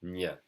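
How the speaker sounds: "Ñ" as a single ny sound; French GN sound. Shown as a demonstration. Teacher likening French GN to Spanish, ny sound on "Ñ". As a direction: press tongue to palate for "Ñ", nyuh. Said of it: "we spell it with a G N".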